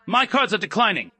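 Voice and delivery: high, loud frantic wail; shrill panic. A narrator's reading. Elena wailing to Julian about her cards, shrill panic. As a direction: squeal it in spoiled panic. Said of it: "her voice shrill and echoing painfully".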